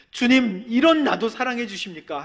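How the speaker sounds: high, loud mock crying prayer; loud, high, re-enacted plea; imitating tearful cry. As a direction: cry out to the Lord, half-acted. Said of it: "꺼이꺼이 울고".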